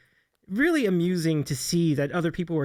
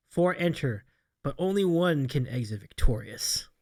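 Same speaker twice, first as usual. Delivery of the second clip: movie trailer voice; 4 semitones lower than usual. Acted. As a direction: read it like an epic movie trailer. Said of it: "in the movie trailer voice".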